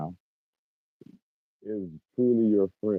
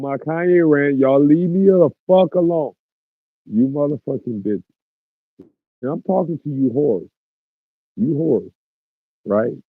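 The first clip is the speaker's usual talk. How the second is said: high, loud ranting tirade; rapper-style rant; 6 semitones higher, 7 dB louder than usual. Pretend. Streamer to chat, launching a mock rant in the style of a rapper, loud and high. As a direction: go off like a rapper's rant, cursing at them. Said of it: "can I get into a rapper rant".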